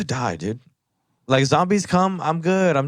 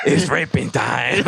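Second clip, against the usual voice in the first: hammed-up catchphrase; slower than usual. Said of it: "I gotta have a catchphrase".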